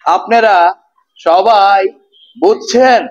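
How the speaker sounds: words spaced out with pauses between them; a teacher drawing the words out with gaps; slowly spoken. Shown as a demonstration. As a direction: say it slowly, one word at a time so everyone follows. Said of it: "আমি আস্তে আস্তে কইলাম".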